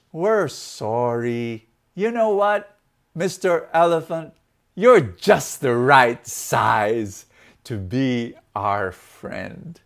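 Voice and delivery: slow, drawn-out making up; acted apology. Animals apologise to the elephant, slow lightly acted reconciliation. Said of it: "goes to the elephant and says".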